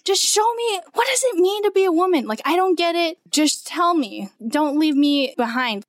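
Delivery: pleading outburst, voice pushed up high; mock yell of desperation; retold yelling at Mary. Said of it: "I continued to yell at Mary".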